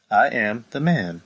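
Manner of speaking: slow, level, unbothered delivery; calm monotone Becky. Retold or imitated. Becky's flat catchphrase, mocked slow and level. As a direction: say it flat, no conviction at all. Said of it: "calm and monotone voice".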